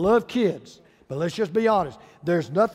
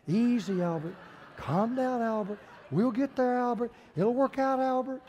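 strained soothing, rising higher as it goes; calm self-soothing; 5 semitones higher, 3 dB quieter than usual. Acted. Frazzled dad reassuring himself, calm self-soothing. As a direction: talk yourself down, pitch creeping up. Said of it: "this dad was just very calmly saying".

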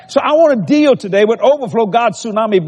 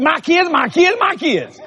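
higher-pitched, plaintive triple repeat; old lady speaking in threes; 6 semitones higher, slower than usual. Retold or imitated. Preacher mimicking old lady complaining about her kids, higher repetitive voice. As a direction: imitate her saying everything three times. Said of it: "she talked like that".

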